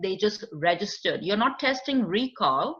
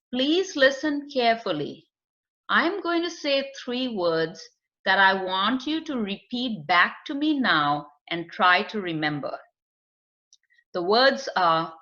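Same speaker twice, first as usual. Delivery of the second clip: slow, clear instructions. Shown as a demonstration. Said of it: "you say the words slowly, clearly".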